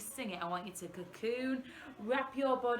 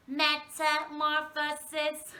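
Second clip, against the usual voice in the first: mock alien voice, a little louder; 6 semitones higher, 6 dB louder, slower than usual. Shown as a demonstration. Teacher repeating the word like an alien. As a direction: say it like a visitor from space. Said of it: "let's say it like an alien".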